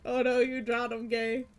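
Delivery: loud startled "oh no"; surprised outburst. Real, not acted. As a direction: blurt it out in real alarm. Reacting to a mistake on stream.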